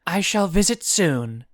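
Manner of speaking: high, loud, emphatic promise; promising. A narrator's reading. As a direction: pledge it to the demon with force. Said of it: "Guinevere promised".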